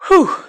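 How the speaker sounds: big puffed-out exhale; relieved "whew". Real, not acted. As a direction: blow out a long breath, as if resetting. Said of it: "let's take a deep breath".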